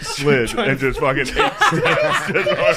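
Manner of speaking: words broken by laughter; laughing. Real, not acted. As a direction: tell it while cracking up. Laughing through the fall story.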